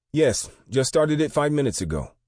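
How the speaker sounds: put-on high, loud clerk with a light Asian accent. A narrator's reading. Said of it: "with a thick Asian accent".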